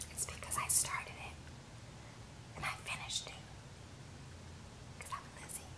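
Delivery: very soft scheming whisper; villain whisper. Retold or imitated. Reality villain admitting she started the fight, whispered. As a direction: confess it like a gleeful villain. Voicing Lizzie's villain confession.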